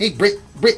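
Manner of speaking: put-on New Zealand accent. Demonstrating accents to a co-speaker, the speaker does a new zealand accent. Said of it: "if you do want to do New Zealand".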